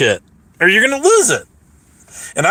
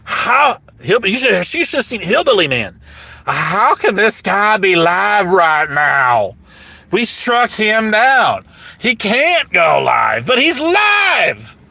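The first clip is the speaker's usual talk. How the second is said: mocking haters; 3 semitones higher than usual. Streamer mocking his haters, stunned mock outrage. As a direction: ham up the baffled haters. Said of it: "They're like".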